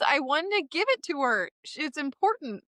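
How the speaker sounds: high, emotional, tearful justification; choked up. Real, not acted. Author defending the line she gave Lily, choked up.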